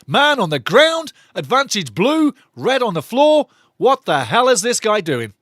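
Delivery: imitating an erratic referee; mock referee. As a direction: ham up the referee's calls. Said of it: "Referee says".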